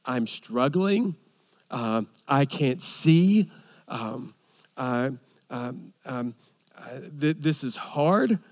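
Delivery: halting quiet lament. Retold or imitated. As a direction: let the lament stumble out, quiet and hesitant. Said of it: "transparency says".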